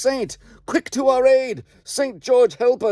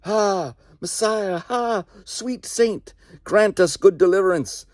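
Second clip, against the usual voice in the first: much higher, ringing war cries; host of shouting voices; 11 semitones higher, slower than usual. Acted. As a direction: call on the saint as a ghostly army. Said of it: "thousands shouting".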